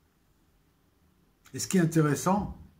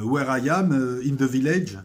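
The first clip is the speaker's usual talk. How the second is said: reciting the dialogue; 6 dB louder than usual. Retold or imitated. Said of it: "ce dialogue".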